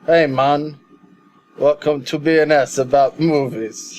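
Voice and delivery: put-on weak first try at Jamaican accent. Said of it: "share your Jamaican accent".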